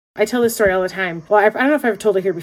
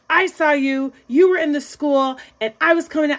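higher-pitched, indignant accusation; mock outrage, pitched up; retold rage; 6 semitones higher than usual. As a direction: imitate an angry man making his case. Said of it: "like, in a rage".

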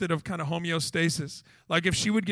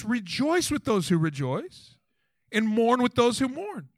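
scripture reading; 3 semitones higher than usual. Acted. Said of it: "The Bible says this".

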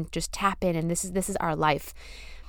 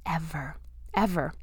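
emotional; 4 semitones lower, 7 dB quieter than usual. Real, not acted. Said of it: "letting me get deep and emotional there".

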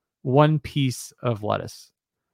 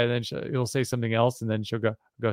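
usual speaking voice

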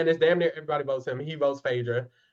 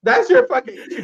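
high, heated rant; 11 semitones higher, 4 dB louder than usual. Real, not acted. Ranting at a contestant.

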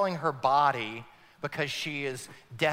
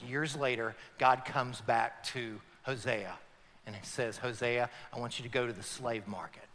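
hushed storytelling; 4 semitones lower, 5 dB quieter than usual. Acted. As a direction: draw them into the sad scene softly. Quiet slow storytelling.

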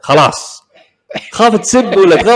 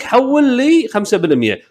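slow demand; 6 semitones higher than usual. Retold or imitated. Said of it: "وتقول لك".

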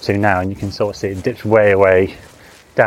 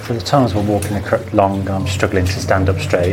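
echoing in a narrow tunnel; hallway echo. Real, not acted. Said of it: "as you can hear, it's pretty echoey".

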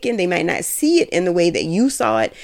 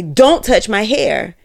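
louder, slow and deliberate, each word landing; firm warning; 3 semitones higher, 4 dB louder, slower than usual. Retold or imitated. To someone reaching for her hair, a slow firm louder warning. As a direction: draw a hard line, slowly. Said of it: "Even if they say".

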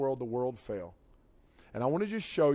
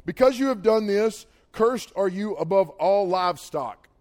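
loud, higher declaration of judgment; God pronouncing a curse; 4 semitones higher, 6 dB louder than usual. Acted. Preacher quoting God to the serpent, forceful pronouncement. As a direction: proclaim it forcefully, stretching out the curse. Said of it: "watch what God said to him".

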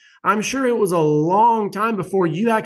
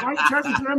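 mock indignant client; 9 semitones higher, much faster than usual. Host imitates clients questioning his price, high whiny voice. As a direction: mimic a baffled client, pitched up. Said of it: "people be like".

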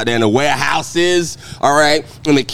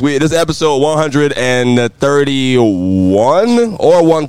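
podcast host intro; slower than usual. Acted.

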